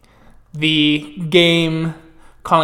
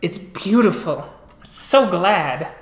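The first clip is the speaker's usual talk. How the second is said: slowing, drawn-out delight; pleased sisterly praise; gushing admiration. Acted. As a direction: admire your sister's dress lovingly. Sister admires the new dress.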